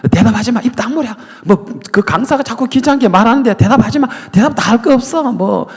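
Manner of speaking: high, loud devil silencing the congregation; devil ordering. Retold or imitated. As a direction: bark orders as the devil hushing them. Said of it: "마귀가".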